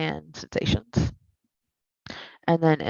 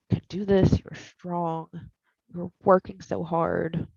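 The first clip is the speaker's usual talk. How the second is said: therapist voice; 3 semitones higher than usual. Shown as a demonstration. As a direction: coax gently, fading into a hush. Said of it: "Hear my voice".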